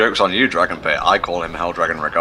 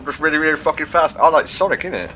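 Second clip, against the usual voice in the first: put-on Cockney accent; 9 semitones higher than usual. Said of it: "That's, that's nothing like it".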